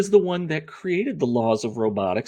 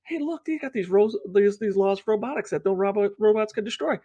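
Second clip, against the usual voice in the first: mocking voice; 9 semitones higher than usual. Mock quote of movie makers.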